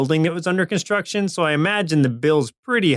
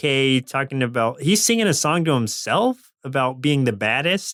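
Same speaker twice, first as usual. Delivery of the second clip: ordinary talk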